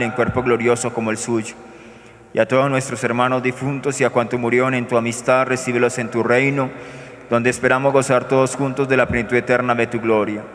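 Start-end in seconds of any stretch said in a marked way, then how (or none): none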